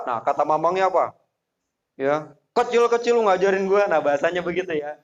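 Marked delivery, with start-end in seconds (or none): 2.5-3.9 higher, fast scornful comeback; arrogant retort. Retold or imitated. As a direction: brush off the kid who lectures you. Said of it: "Songong banget gitu ya". (mamang membalas dengan sombong)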